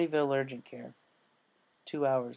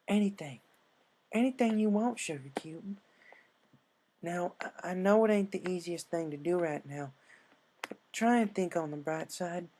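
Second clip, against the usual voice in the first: higher, gentle country comfort; reassuring Applejack; 6 semitones higher than usual. Acted. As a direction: soothe a scared friend.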